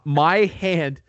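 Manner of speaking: laughs through the words; breaking into a laugh at his own swollen hand. Real, not acted. Telling friends about his swollen hand, laughing.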